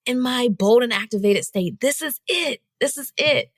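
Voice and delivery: giddy, rising call to be filmed; excited. Retold or imitated. Telling her boyfriend to film her, lightly excited. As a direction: urge him on, thrilled. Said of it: "I tell him".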